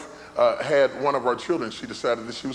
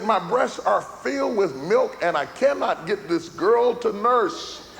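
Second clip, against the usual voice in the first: higher-pitched imitation of an upset wife; mock tearful wife; 5 semitones higher than usual. Crying wife tells husband the baby won't nurse, mock tearful. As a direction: retell her tearful complaint in a raised voice. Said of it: "and she's crying".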